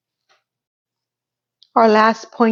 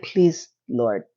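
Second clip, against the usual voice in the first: lower, softer pleading prayer; mock prayer; 8 semitones lower, 6 dB quieter than usual. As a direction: beg the Lord under your breath.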